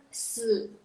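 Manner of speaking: se dipping then rising; third-tone demo. Shown as a demonstration. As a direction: Mandarin third tone on se. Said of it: "Kalau nada ketiga".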